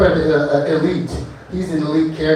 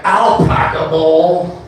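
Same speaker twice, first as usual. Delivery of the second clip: stoner voice; much slower than usual. Pretend. Stoner llama punchline.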